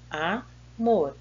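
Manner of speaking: "Amor" split into A and mor; "Amor" broken up for counting syllables. Shown as a demonstration. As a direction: say "Amor" in two separate syllables, pausing between. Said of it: "separar então a sílaba da palavra amor".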